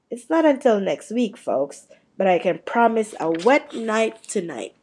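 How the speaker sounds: chatty, upbeat forecast read; jovial TV weatherman. Acted. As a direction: play the cheery weatherman.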